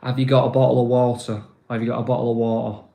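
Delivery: fast northern English demo of bottle of water; Yorkshire-style "bottle of water", quick; northern accent. Shown as a demonstration. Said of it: "So I say".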